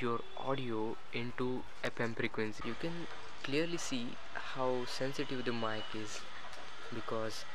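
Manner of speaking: tinny distant radio-transmitter audio; spy bug mic sound. Shown as a demonstration. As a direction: sound picked up by a cheap bug. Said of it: "how this Spy microphone bug sounds".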